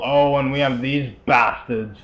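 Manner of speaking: put-on a light Scottish accent on the line. Player greeting the door-locking enemies, light Scottish accent. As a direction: toss it off in a hint of Scottish accent. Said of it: "talk in Scottish accent there".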